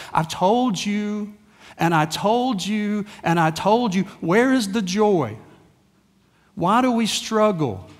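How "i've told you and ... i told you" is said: slow, stretched repeated reproach; God's exasperation. Retold or imitated. God to struggling believers, slow exasperated reproach. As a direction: voice weary-patient exasperation, drawing out each repeat. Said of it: "God has that same idea with us".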